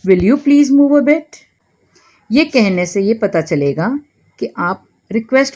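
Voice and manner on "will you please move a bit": very slow, every word laid out clearly; slow model phrase. Shown as a demonstration. Teacher slowly models an English apology for Hindi learners. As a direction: say it slowly so learners can repeat it. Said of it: "क्या कहेंगे?".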